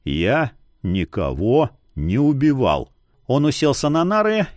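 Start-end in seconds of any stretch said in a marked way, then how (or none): 0.0-2.9 low, slow, every word separate; slow deliberate denial; each word clipped. Acted. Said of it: "чеканя каждое слово".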